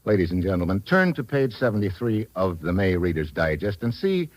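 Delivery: earnest sponsor pitch, sales voice; ad read. Acted. Star steps out of role to pitch to salesmen, earnest ad read. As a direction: sell the cereal sincerely.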